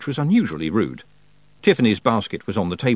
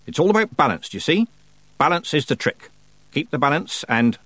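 put-on higher-pitched, self-assured old teacher; lecturing old witch; 6 semitones higher than usual. Old witch teaching a girl the trick, instructive. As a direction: explain the trick with relish.

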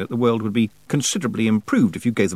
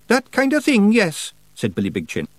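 high Scottish pixie voice; little Scots elder explaining; Scottish Feegle voice; 11 semitones higher, 3 dB louder than usual. A narrator's reading. Feegle Billy Big Chin speaks.

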